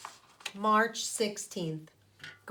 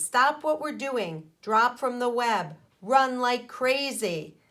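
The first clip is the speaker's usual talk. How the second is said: louder, urgent drill call; urgent safety warning; 3 semitones higher, 5 dB louder than usual. Acted. Safety day warning to spiders, urgent. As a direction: sound the alarm. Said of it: "It says".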